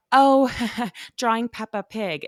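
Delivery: a loud, high "Oh" that breaks into a laugh, then the joke. Retold or imitated. Working woman jokes to nosy mom, laughing playful reply. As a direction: laugh through a playful brush-off.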